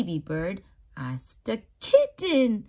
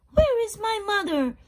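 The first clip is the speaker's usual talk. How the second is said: high, loud little chick calling; a baby bird crying out for mother; 10 semitones higher, 6 dB louder than usual. Acted. Baby bird calls for its missing mother, high. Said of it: "he said".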